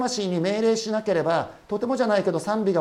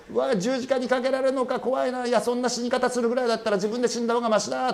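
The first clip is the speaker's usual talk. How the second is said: raised, rushing panic of a guard facing execution; panicked jailer; 5 semitones higher than usual. Retold or imitated. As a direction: blurt it out like a terrified jailer. Panicked jailer's inner monologue.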